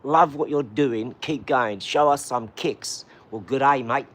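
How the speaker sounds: put-on big, slow, drawn-out Australian accent; mock Australian accent. Fan from Australia cheering him on, hammed-up Australian accent. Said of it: "that accent is outrageously big".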